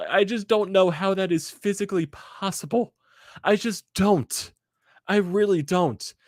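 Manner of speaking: high, slowing, pleading disbelief; baffled despair. Real, not acted. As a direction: plead to nobody, drawn out. Fan baffled by collapse.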